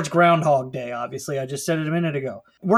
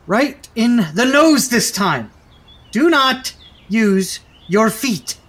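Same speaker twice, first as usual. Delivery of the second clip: angry; 5 semitones higher, 6 dB louder, slower than usual. Acted. Coach scolding players.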